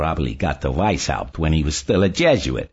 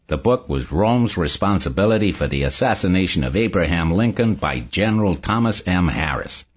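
pleasant; 4 semitones lower than usual. A narrator's reading. Barney explains his book to Saul, pleasantly. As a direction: explain it pleasantly, with easy confidence. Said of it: "Barney said pleasantly".

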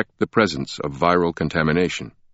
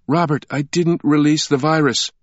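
high, louder insistent yell; lightly acted yell of denial; 9 semitones higher, 3 dB louder than usual. A narrator's reading. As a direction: cry out in protest. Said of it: "Sienna yelled".

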